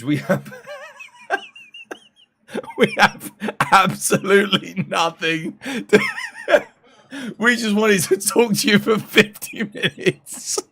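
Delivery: high, laughing mock presenter voice. Streamer mocks a presenter on stage, giggling high voice. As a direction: send up a dull stage announcement while laughing. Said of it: "Guy stands on the stage".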